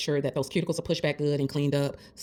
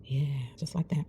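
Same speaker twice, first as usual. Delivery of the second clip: whisper; 6 dB quieter than usual. Real, not acted. Quiet moment while painting nails.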